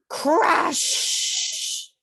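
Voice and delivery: high, punchy exclaimed crash; crash sound effect. A narrator's reading. Reading aloud, acting out the big crash. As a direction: smack the word like a collision.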